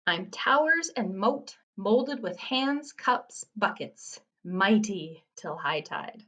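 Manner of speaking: slow haiku reading, dropping after the opening; poem reading. Acted. Teacher reads a sandcastle riddle to students, poem reading.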